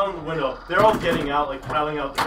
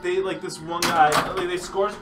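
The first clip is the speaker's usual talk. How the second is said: normal talking voice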